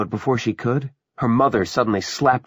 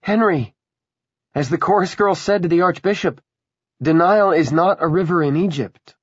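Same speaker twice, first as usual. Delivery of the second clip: high, loud, scornful challenge; taunting woman; 11 semitones higher, 7 dB louder than usual. Acted. Willa to Henry about the coming demolition, taunting. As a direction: lecture him loudly, pitched well up, with mounting scorn.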